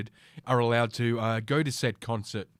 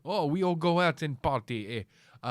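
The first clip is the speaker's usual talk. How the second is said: mock Russian accent; 5 semitones higher than usual. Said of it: "what the fuck was that accent?".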